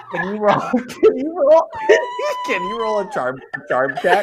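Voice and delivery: asking through laughter; laughing. Real, not acted. GM laughing at absurd pitch.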